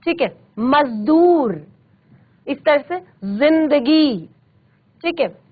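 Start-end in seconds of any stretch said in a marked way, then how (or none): 0.6-1.7 मजदूर with ज as z, slowly; vibrating z sound. Shown as a demonstration. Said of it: "ज में आपको एक वाइब्रेट". 3.2-4.3 जिंदगी with ज as z; vibrating z sound. Shown as a demonstration. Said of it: "ज में आपको एक वाइब्रेट".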